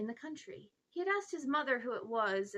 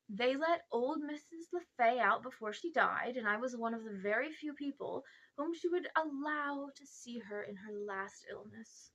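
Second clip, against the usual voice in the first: self-important uncle. Acted. Uncle Andrew tells his story.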